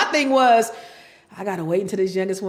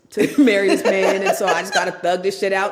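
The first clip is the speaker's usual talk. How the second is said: louder laughing declaration; laughing rant; 6 dB louder than usual. Real, not acted. Wife laughing about staying married until she dies. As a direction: laugh while vowing to tough it out.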